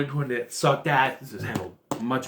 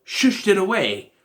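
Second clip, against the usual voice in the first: higher-pitched mock disbelief; puzzled, raised-voice objection; baffled protest; 5 semitones higher than usual. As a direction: react like an incredulous viewer. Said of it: "I'm like".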